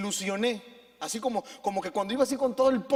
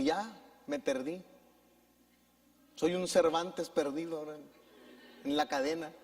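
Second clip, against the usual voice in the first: llanto de niño; 3 semitones lower, 5 dB quieter than usual. Retold or imitated. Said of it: "empecé a llorar".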